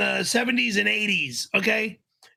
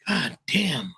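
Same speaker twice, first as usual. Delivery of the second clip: ordinary delivery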